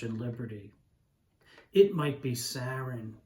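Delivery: measured, deliberate poetry recital; poem reading. Acted. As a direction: read it as a spoken-word poem, letting lines land.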